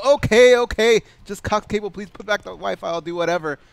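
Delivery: mock pleading. Mock begging for Wi-Fi.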